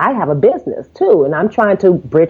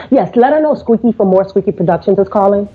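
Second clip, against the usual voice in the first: casual, self-assured phone voice; as if everyone knows who you are; breezy confidence. Retold or imitated. Telling the receptionist her company name, assuredly. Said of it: "that was the inflection in my voice".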